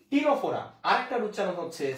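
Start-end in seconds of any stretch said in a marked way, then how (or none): 0.1-0.6 টিনোফোরা said clearly as টি-নো-ফো-রা, no leading স, higher and louder; pronunciation. Shown as a demonstration. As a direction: spell out টিনোফোরা with a plain টি start. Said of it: "উচ্চারণ কি?". (টিনোফোরা উচ্চারণে স বাদ দিয়ে জোরে স্পষ্ট করে বলা)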